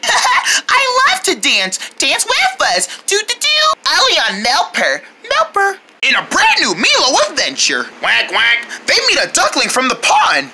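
put-on lively kids' channel promo voice; TV promo announcer. Kids doing a pretend TV promo for a cartoon, upbeat announcer. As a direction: sell the new show like a TV ad.

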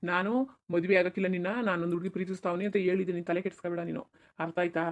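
calm her quietly so only she hears; hushed reassurance. Acted. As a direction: son soothing his crying wife. Son comforting crying bride.

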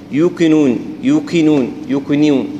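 يوقنون with a ياء sound slipped into the و; خطأ: يوقنون بصوت الياء; wrong يوقنون. Shown as a demonstration. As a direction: say يوقنون letting the و lean towards ياء. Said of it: "إن هي ياء وتحاول تدخل معها لا".

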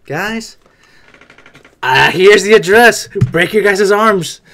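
slow, loud mock order to break arms; hammed-up boss calling the guys over; drawn-out loud mock command; mock hospital leader. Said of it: "I would be like".

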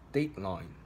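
DEADline, with weight on DEAD; stress on first part. Shown as a demonstration. Teacher showing learners where stress falls in "Deadline", first-part stress. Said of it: "focus on the first part".

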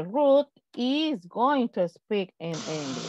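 slow, careful statement; slow model sentence. Shown as a demonstration. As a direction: read it out carefully for the class. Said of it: "yo también puedo decir". (frase modelo lenta)

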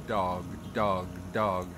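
dog with the tongue tip on the roof of the mouth; slow drill on the D of dog. Shown as a demonstration. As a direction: tap the D in dog up top. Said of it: "say that a few times".

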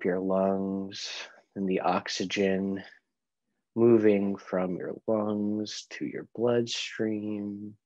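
guided meditation. Real, not acted. Leads a breathing meditation.

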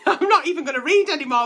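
laughing while talking. Real, not acted. Laughing over the letter.

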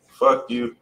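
ordinary talk

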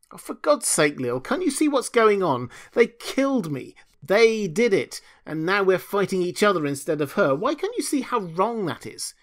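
high, loud, frantic protest; begging Lil to see the truth, shrill outrage; outraged plea. Acted. Julius pleading angrily with Lil.

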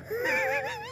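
high, quiet giggle; short laugh. Real, not acted. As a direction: giggle briefly to yourself. Amused by his walk-back gear.

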